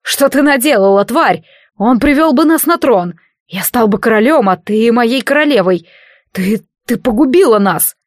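bitter furious yell; furious accusation. Acted. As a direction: rage at her for ruining everything. Riolas screams at Karisha.

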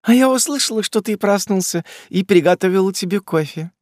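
put-on high affected girly voice; sweet, mannered and coy; affected drawl. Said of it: "жеманно протянула Барби".

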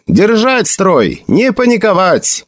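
high military order; shouted command. A narrator's reading. Felix orders his battalion to hold formation, shouting. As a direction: call it out to steady the ranks. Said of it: "крикнул Феликс".

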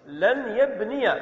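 لن يبني said slowly, ending yabniya; slow demonstration. Shown as a demonstration. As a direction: draw out لن يبني to show the fatha. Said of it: "فنقول". (نطق بطيء لإظهار الفتحة)

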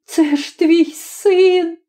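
high, slow, trembling plea; mother crying out to her husband in fear. Acted. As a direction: beg him, voice shaking. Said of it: "вигукнула вона тремтячим голосом".

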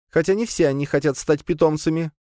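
chirpy little spider pet; spider creature voice. A narrator's reading. Leya speaks. (голос паучихи)

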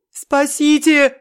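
намного выше и громче, медленно; визжать от ужаса; визг. A narrator's reading. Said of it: "визжал Семён". (Семён визжит, облепленный жуками)

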